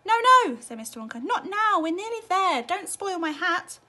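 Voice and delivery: high, loud urgent plea, slowing at the end; frantic plea; urgent pleading. A narrator's reading. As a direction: beg her to hold it in. Wonka pleading, hat held out.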